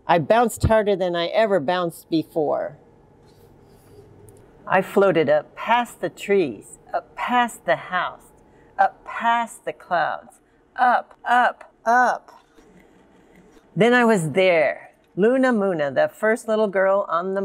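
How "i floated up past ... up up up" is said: floating upward. A narrator's reading. Girl floating up past the clouds, slow and rising. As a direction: stretch each phrase as if drifting up. Narrator mimics rising into space.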